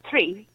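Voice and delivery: "tree" said with a plain t, no th sound; Irish "tree". Shown as a demonstration. Showing friends how the Irish say three. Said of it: "so you'd say, like".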